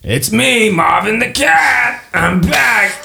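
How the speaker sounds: high, slow cat-creature voice; high cheerful cat voice greeting the party; Marvin the cat. Acted. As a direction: purr it out, pleased to see old friends.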